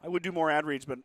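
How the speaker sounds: hoarse, worn-out throat from illness. Real, not acted. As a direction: talk through a sore, hoarse throat. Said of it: "with my eighty-five-year-old man voice".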